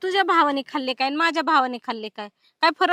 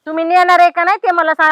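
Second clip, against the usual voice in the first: insistent demand; 7 dB louder than usual. Acted. Wife demands to be taken along.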